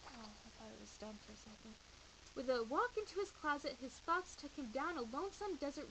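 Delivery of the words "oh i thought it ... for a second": softer, fast, offhand; quiet aside. Real, not acted. Reader pausing the book for a quick aside. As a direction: mutter it to the room. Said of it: "aside to listener".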